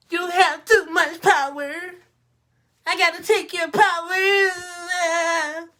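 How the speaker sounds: put-on crying spoiled child. A bratty legislator wails at the governor, high and tearful. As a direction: wail it slowly like a tantrum. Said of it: "That's how the cats in Lansing sound".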